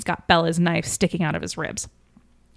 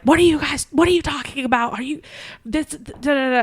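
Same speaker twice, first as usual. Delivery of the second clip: higher put-on voice for a shrill aunt; lightly voiced angry Bella demanding answers; a hint of a mad aunt yelling; mock yell; 8 semitones higher than usual. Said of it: "is yelling and is like".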